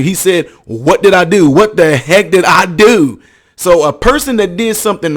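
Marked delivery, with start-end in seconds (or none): 0.6-3.2 mild mock yell, slowing at the end; half-raised voice, imitating his protest; imitated yelling. Retelling his protest at being accused, mild imitated yelling. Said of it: "he's sitting there yelling at you".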